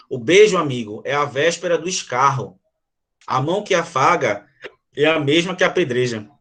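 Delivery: measured, solemn reading of a sonnet; poem recitation. Acted. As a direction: recite each verse with weight. Reads the sonnet aloud.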